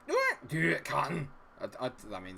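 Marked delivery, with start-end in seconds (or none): 0.1-1.3 higher, stereotyped Scottish voice; Scottish accent. Acted. Streamer mocks a Scot, stereotyped Scottish accent. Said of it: "that's very stereotypical of me".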